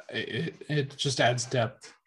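choking mid-sentence; choking on a drink. Real, not acted. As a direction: voice catching, choking a little. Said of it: "Sorry, I'm choking there".

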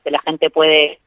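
choppy broken phone line; bad connection. Real, not acted. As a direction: voice cutting out on the call. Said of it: "Se corta un poco la comunicación".

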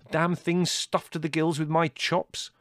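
high, loud, slow outrage; indignant complaint. A narrator's reading. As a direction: spell out the grievance angrily. Larry angrily complains about chops.

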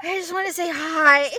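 put-on playfully drunk caller; tipsy, laughing hello; super drunk. Drunk caller who just wants to say hi, lightly slurred. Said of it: "real good for sounding super drunk".

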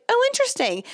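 high, light "oh" of surprise; mild surprise at a discovery; mock surprise. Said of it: "and I was like".

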